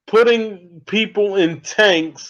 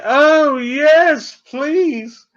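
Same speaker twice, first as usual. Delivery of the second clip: much higher and louder, a mock swoon; eager breathless yes; 7 semitones higher, 3 dB louder, much slower than usual. Student swooning at the professor in a high, hammed-up voice.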